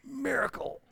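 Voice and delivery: high, hushed punchline; whispered joke. Real, not acted. Preacher joking that a saved lawyer is a miracle, whispered. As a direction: drop it in a stage whisper.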